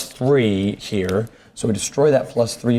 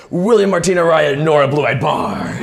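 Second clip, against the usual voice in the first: arcane incantation; 5 semitones higher than usual. Acted. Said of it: "she cries out a series of arcane words".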